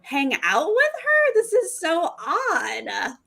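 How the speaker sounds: high, stretched disbelief; incredulous. Retold or imitated. Podcaster voicing her own baffled reaction to the date. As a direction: ask it high and baffled, slowing at the end. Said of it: "you're like".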